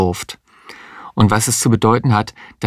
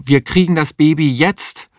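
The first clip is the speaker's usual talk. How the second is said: higher-pitched, insistent exclamation; defiant cry; 7 semitones higher than usual. A narrator's reading. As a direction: insist urgently, pitch raised. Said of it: "rief Mario".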